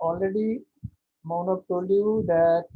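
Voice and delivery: speaking up loudly. Real, not acted. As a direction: project for listeners who can't hear. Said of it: "একটু জোরে বলুন sir".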